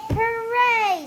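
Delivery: high, loud happy cheer; a child's loud delighted hooray; excited cheer. Acted. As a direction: cheer it out with joy. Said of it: "says Chrysanthemum".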